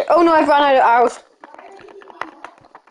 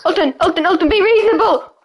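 pleading, rising higher towards the end; urgent pleading; 4 semitones higher than usual. Real, not acted. Begging Alton to be reasonable, urgent pleading. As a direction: beg an attacker to back off.

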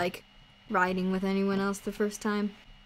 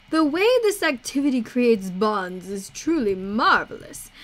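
lightly voiced courteous showman; theatrical game character; 4 dB louder than usual. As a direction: read it as a grand, courtly companion. Voices Idris's game dialogue.

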